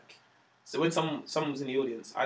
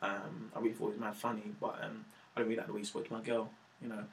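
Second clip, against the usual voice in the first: imitating the big boyfriend; 5 semitones lower, 12 dB quieter than usual. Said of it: "And he was just like".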